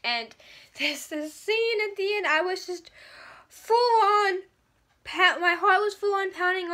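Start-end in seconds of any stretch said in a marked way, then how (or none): 3.5-6.7 high, loud and breathless; excited. Real, not acted. Describing the ending to viewers, excited and laughing. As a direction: gush with a laugh. Reliving an exciting book scene.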